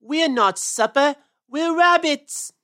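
an upset little rabbit shouting back; loud, slow protest at the cat; yelling. Acted. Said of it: "yelled Peter".

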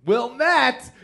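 a touch of teasing surprise; incredulous question. Real, not acted. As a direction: tease the posh suburb. Incredulous guess at hometown.

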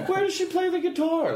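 very high, laughing squeak of a question; high laughing dodge about the mother's guitar; desperate deflection. Retold or imitated. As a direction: blurt it out, desperate to change the subject. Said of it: "I was so desperate".

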